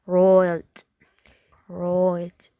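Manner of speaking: "roiled" for right, oy vowel, low pitch; Irish right. Shown as a demonstration. Teacher contrasting accents, Irish right. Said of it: "in Irish".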